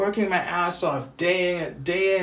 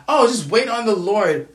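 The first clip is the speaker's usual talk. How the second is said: mocking quote; 6 dB louder than usual. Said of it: "sick and tired of people saying".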